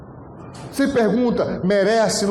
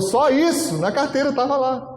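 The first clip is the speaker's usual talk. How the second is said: surprised; 6 semitones higher than usual. Retold or imitated. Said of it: "Ele falou".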